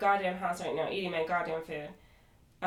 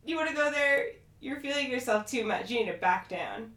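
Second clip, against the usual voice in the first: mildly taunting, raised-pitch challenge; retold dare, pitched up a little; confrontational challenge; 5 semitones higher than usual. Castmate daring her friend to go there, confrontational. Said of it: "And Mia's like".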